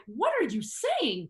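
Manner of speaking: lightly voiced inner critic pulling the speaker up. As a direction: scold yourself, drawn out. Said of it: "my inner being's like".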